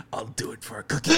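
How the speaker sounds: whispered through laughter; breathy laugh-talk on punchline. Retold or imitated. Punchline retold while laughing.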